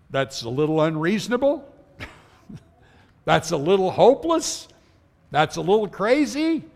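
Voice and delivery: questioning lilt, rising at each end; mock disbelief, each phrase turned into a question; incredulous doubting. Preacher voicing a sinner who doubts forgiveness, incredulous.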